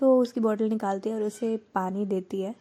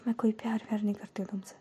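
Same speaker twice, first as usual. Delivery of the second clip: quick denying whisper; 6 dB quieter, much faster than usual. Acted. Denying love, embarrassed.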